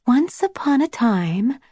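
a sister telling a bedtime tale, lightly voiced; a lightly voiced storyteller beginning a bedtime story; storyteller's voice. A narrator's reading. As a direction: gently spin the opening of a tale. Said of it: "Rose whispered in her best storyteller's voice".

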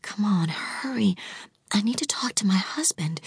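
hushed, breathy whisper into the phone; whispered mutter. A narrator's reading. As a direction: mutter it urgently under your breath. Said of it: "she muttered".

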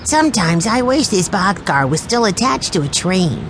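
put-on a small boy daydreaming aloud; dreamy young Benny. A narrator's reading. Narrator holds Benny's child voice.

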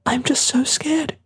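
very high, slow, small confession; frightened, drawn-out, high child voice; scared boy. A narrator's reading. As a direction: admit fear like a child near tears. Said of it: "Michael's bottom lip trembled".

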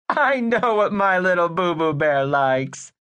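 high, sweet motherly voice; sugary doting mother; doting mom. Acted. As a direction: coo at your little boy.

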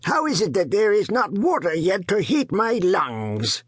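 put-on high, wheezing old father's complaint; gasping old man. A narrator's reading. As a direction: gasp it out like a sick old man. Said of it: "and he gasped".

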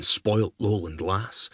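plain reading voice

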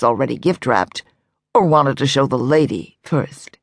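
a hint of a distinguished salesman; lightly voiced elderly assistant. A narrator's reading.

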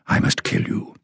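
hoarse, breathy death threat; rasped threat. A narrator's reading. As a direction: let the threat scrape out. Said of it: "in a low, rasping voice".

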